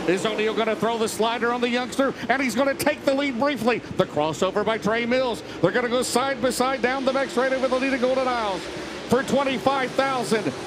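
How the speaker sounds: rising excited race call; motorsport commentator. Real, not acted. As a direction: call the finish, building fast.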